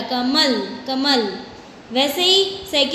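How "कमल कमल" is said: "कमल" with the weight on म; stress on म. Shown as a demonstration. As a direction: lean on the middle syllable म in "कमल". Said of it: "मैं पे जोर आ रहा है".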